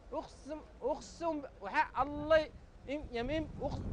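slow, hushed swearing; mock solemn oath. (قسم بصوت خافت وبطيء)

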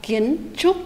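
"Kiến trúc" with a crisp "tr" initial on "trúc"; teacher demo of "Kiến trúc"; model pronunciation. Shown as a demonstration. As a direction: say "Kiến trúc" clearly, landing on "trúc". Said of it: "phát âm đúng âm đầu chờ".

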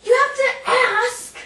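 slow, loud, stern reprimand; angry scolding. Acted. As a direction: lay down the rule angrily. Scolding Bob.

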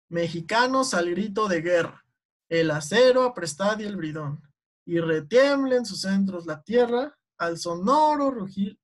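lilting verse with marked beats; rhythmic recitation. Shown as a demonstration. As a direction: recite the anthem leaning on each stressed syllable. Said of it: "la tonadita". (recitado con tonadita, marcando el ritmo)

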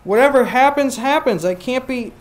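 mock-prim Oscar refusing; prissy Oscar. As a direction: sniff at the tomfoolery. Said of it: "That's what he's saying".

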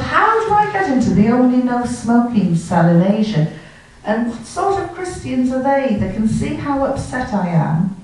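comic indignant disbelief. Retold or imitated. Retold indignation at no-smoking cell.

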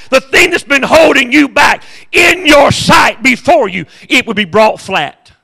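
building to a high, loud shout; preaching climax. Acted. Preacher driving the point home to the congregation, shouting.

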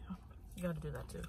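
quick soft whisper; whispered aside. Real, not acted. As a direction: breathe it as a sly aside. Muttered aside after joke.

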